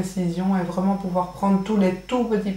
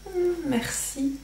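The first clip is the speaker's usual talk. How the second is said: forced polite thanks; 9 semitones higher, 7 dB quieter, slower than usual. Retold or imitated. Forced thanks for unwanted gift.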